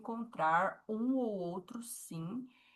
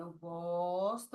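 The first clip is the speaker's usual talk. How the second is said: 1 slow demo; 2 semitones lower, much slower than usual. Shown as a demonstration. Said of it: "mãozinha rodando".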